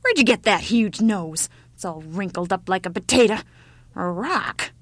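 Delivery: lightly voiced scornful old woman; old woman's scorn. A narrator's reading. Old woman mocks the ugly child's nose, scornful. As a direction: poke fun with punched words.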